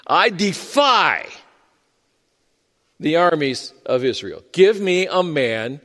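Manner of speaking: lightly voiced slow challenge; a touch of the giant's dragon-like boom; slow defiance. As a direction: let each word hang, taunting. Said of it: "And then he says this".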